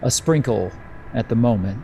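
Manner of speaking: measured narration with suspenseful pauses; lightly dramatic storyteller delivery; game master's scene setting. Acted. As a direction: let the storm creep in, phrase by phrase.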